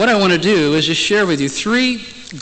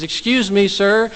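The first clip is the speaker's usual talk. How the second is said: higher-pitched mild mock yell; calling out; 5 semitones higher, 3 dB louder, slower than usual. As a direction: lightly call across to someone. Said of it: "he yells to the old man".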